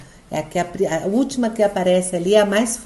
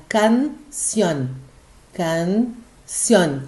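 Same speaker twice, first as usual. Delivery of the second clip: canción in two parts, "can" then "ción"; split into syllables; 2 semitones lower, much slower than usual. Shown as a demonstration. Teacher showing students the first word, syllable by syllable. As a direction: say canción syllable by syllable with a clear gap. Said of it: "separándolas en sílabas y señalando la más fuerte".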